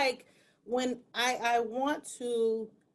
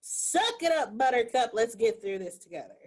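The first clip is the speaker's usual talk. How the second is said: tough love. Retold or imitated. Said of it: "the wisdom to say".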